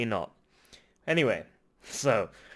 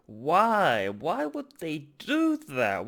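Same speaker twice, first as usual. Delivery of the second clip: angry; 2 semitones higher, 3 dB louder, much slower than usual. Real, not acted. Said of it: "I'm sorry I'm getting angry".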